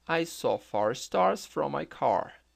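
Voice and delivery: slow, careful English model sentence; model sentence for repeating. Shown as a demonstration. Teacher to students, slow careful model read. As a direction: read "I saw far stars from my car" slowly, every word clear. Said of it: "Tente repetir essa frase também".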